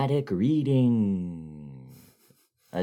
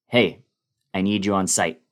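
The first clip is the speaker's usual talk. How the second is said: mild panic; 6 dB louder, faster than usual. Retold or imitated. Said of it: "I could sense some panic in his voice".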